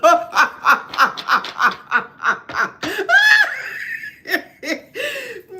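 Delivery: high, long howl of laughter; loud howling laughter; loud shrieking laugh. Real, not acted. Cracking up.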